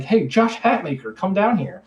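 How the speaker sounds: mild mock holler; retold calling out. Friend on the ground to one on the roof, retold calling out.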